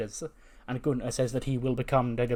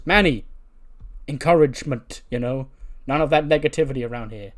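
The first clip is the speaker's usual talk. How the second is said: raised, louder reproach; mild scolding; 7 dB louder than usual. Acted. Dio corrects Manny for being negative, mildly scolding. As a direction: pull a friend up sharply for negativity.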